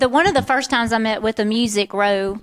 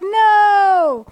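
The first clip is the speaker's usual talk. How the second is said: mock exclamation; 10 semitones higher, 6 dB louder than usual. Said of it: "I'm like".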